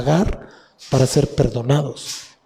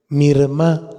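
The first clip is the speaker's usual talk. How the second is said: "mirma" with the accent on the A; stress on final A. Shown as a demonstration. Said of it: "acento en la A".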